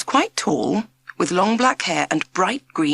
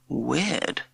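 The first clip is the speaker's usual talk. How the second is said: softer, one word grumbled under the breath; muttered; 3 semitones lower, 5 dB quieter than usual. A narrator's reading. Jack muttering about the strange teacher. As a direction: mumble it to yourself at the back of class. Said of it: "muttered Jack".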